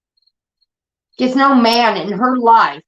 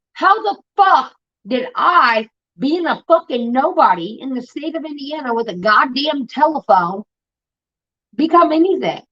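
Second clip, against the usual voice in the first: outraged disbelief; 5 semitones higher than usual. Real, not acted. Outraged rant about public figure.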